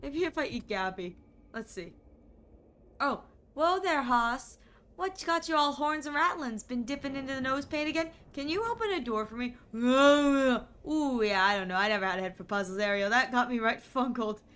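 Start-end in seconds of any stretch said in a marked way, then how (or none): 3.0-14.4 a hint of a cheery old ranch hand; folksy cowboy. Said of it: "Gabby doesn't talk like that".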